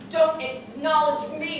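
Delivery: slow emphatic shout. Acted. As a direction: spit it back at him, slow and loud. Repeats line, second time shouted.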